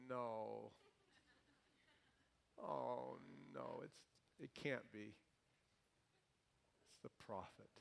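dismayed king. Retold or imitated. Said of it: "and he's like".

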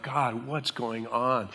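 broken plea. Pretend. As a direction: barely voice it, slow and spent.

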